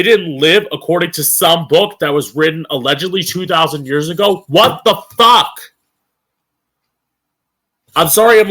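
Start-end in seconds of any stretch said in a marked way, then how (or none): 4.5-5.6 high, loud exasperated outburst; real angry disbelief. Real, not acted. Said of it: "getting so angry". 8.0-8.5 angry apology. Real, not acted. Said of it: "getting so angry".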